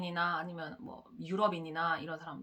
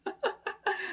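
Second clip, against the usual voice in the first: high, falling burst of laughter; amused laugh; 11 semitones higher than usual. Real, not acted. Vlogger amused by hypocrites, high falling laugh. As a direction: cackle at the absurdity.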